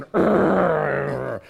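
low growl; grumbling growl. Shown as a demonstration. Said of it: "the sound of somebody just going".

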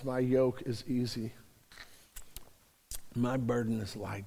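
tender preacher voicing Jesus; gentle preaching. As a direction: ease down to a soothing close. Gentle quoted Jesus, fading.

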